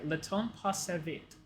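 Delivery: slow, halting attempt at "le temps passe vite"; "le temps passe vite" in clumsy, non-native French; butchered French pronunciation. Real, not acted. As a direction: sound out "le temps passe vite" carefully with an English accent. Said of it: "I butchered the pronunciation".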